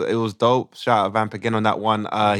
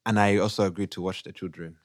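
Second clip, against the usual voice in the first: put-on Ugandan accent; 3 semitones lower than usual. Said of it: "we do it in a Ugandan accent".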